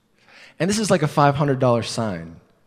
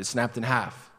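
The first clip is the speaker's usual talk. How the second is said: softer, unsure mumble; guilty faltering excuse; sheepish stumbling lie; 8 dB quieter than usual. Retold or imitated. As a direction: admit it weakly, losing nerve. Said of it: "I was stumbling like this".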